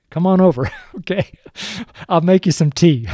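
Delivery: chuckling okay; laughing invitation. Real, not acted. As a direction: laugh as you invite them over. Joking invitation to come have tea.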